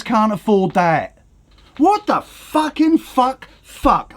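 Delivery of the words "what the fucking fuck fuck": losing it. Real, not acted. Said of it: "I'm sorry I'm losing it".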